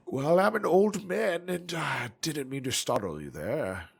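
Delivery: lightly voiced old man; a hint of a frail old man. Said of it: "I've got this old man voice now".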